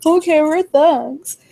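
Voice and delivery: high, slow, tearful retelling; mock crying. To Tasha, giving in about handling it, mock tearful. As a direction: reluctantly agree in a drawn-out mock whimper. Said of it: "And I'm crying".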